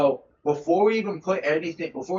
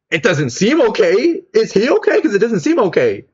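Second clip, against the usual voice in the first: alarmed protest; 7 semitones higher, 10 dB louder than usual. Retold or imitated. Grandson pleading with grandma that it doesn't seem okay, loud and high. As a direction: insist something's wrong, voice up high and loud. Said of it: "I'm like".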